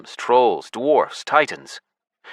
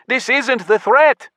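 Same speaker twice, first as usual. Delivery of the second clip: high, loud, slow shout; 6 dB louder, slower than usual. A narrator's reading. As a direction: bellow the warning. Urgent battle cry.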